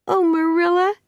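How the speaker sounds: put-on high, plaintive girl's voice; unhappy. A narrator's reading. Anne upstairs after crying over her cake, unhappy. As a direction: lament it, pitched right up.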